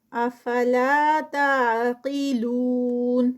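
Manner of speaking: slow drawn-out tajweed recitation, vowels held; Quran recitation. Shown as a demonstration. Tajweed teacher reciting a verse for students, slow melodic recitation. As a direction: chant each word with its lengthening. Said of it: "لا پہ ٹو counts".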